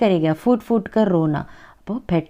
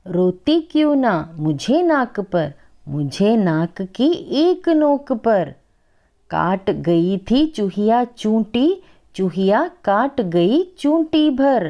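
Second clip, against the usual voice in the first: put-on slow, sing-song recital of a children's poem; poem recitation; much slower than usual. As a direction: recite each line slowly for the class. Teacher recites Hindi poem.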